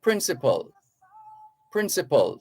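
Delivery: "principal" repeated with reduced last syllable; closed-gap "principal". Shown as a demonstration. Host drills listeners, "principal" with reduced ending. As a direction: model "principal" ending like hospital, with a pause after. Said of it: "close that gap a bit and say principal".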